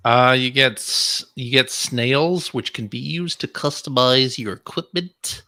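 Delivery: snail voice. Acted. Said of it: "Is that your snail voice?".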